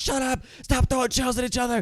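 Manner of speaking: put-on, very high, shrill yelling. Retelling a bus ride with friends racing: imitating a yelling bus driver. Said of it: "The bus driver would be yelling at us".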